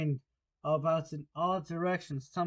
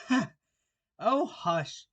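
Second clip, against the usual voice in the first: raised, urgent, voiced hush; frightened whisper; 8 semitones higher, 6 dB louder, much slower than usual. Rabbit silencing laughing Alice, frightened. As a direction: shush in alarm, not truly whispered. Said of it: "whispered in a frightened tone".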